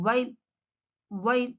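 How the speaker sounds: "While" with lips pushed forward; "While" with no teeth on the lip; W sound. Shown as a demonstration. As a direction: start "While" with a rounded W. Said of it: "mouth shape".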